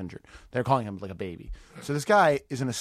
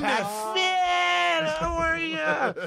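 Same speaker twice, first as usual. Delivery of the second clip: phony nice guy; much slower than usual. Pretend. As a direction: greet him like a Hollywood phony. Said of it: "Hollywood phony nice guy".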